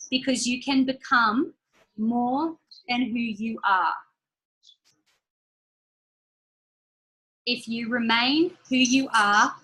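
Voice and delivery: slow, deliberate quote read for note-taking; slow dictation. Shown as a demonstration. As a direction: say each word slowly so they can write. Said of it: "I'll say it again".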